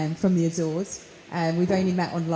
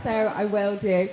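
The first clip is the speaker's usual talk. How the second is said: speaking slowly. Real, not acted. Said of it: "you asked me to speak slowly".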